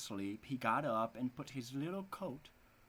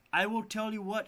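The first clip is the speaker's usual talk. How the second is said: scheming wife; 8 semitones higher, 6 dB louder than usual. Acted. Scheming wife voiced in story.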